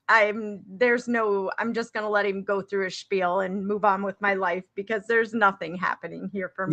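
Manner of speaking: imitating a man who has given up; resigned. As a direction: give up with a touch of defeat. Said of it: "lays his head down in his hands".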